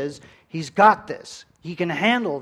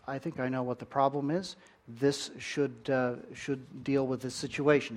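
calm doctor; 3 semitones lower, 6 dB quieter than usual. Retold or imitated. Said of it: "he's just unflappable".

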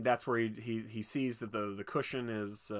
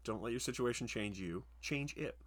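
put-on softer, earnest advice to kids; mock moral lesson; 6 dB quieter than usual. Shown as a demonstration. Telling kids to remember the lesson, soft mock-earnest moral. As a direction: deliver it like a solemn PSA. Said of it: "So remember that, kids".

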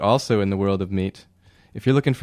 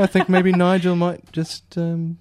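sly laughing; 9 semitones higher than usual. Acted. Sly joke.

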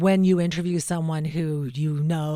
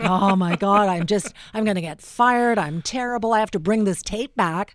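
panicked self-talk; 3 semitones higher, 5 dB louder than usual. Retold or imitated. Panicked after failed interview.

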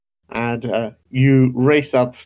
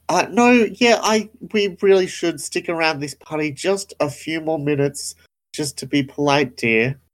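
tight, pitched-up polite insistence; forced politeness; 4 semitones higher than usual. Acted. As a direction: insist sweetly through a tense smile. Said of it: "Trish makes a very definite, like, "Don't blow this for me," sort of look and says".

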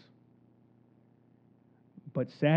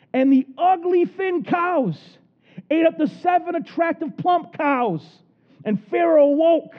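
dramatic reading; 10 semitones higher, 4 dB louder than usual. Real, not acted. Climax of dream reading.

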